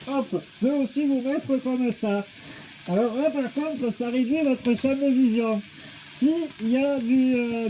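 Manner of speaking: speaking inside a snorkel mask; muffled through a full-face mask. Real, not acted. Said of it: "Le masque de Décathlon".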